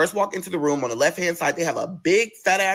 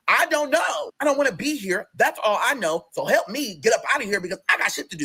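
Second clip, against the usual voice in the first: exasperated rant; 6 semitones higher than usual. Retold or imitated. Venting about why he's here.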